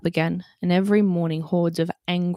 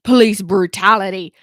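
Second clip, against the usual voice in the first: protester shout; 10 dB louder than usual. Acted.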